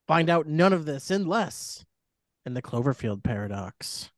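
lightly voiced horror host reading; a hint of a spooky storyteller. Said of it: "please gather around for the reading of the plot".

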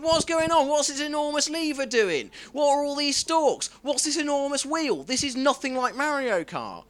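a learner driver panics at the car's controls, high and frantic; panicked learner. Retold or imitated. High-pitched confused panic. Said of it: "I'm just like".

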